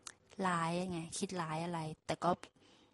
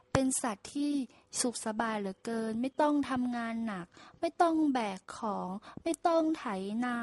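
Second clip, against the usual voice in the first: lightly voiced ox, a touch of whining envy; mildly jealous ox sighing over the donkey's easy life; envious ox; 3 semitones higher, slower than usual. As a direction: ox envying the donkey, understated. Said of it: "อิจฉาเยินยอ".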